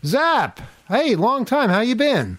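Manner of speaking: bright, high, delighted greeting; excited. Real, not acted. Greeting an old caller.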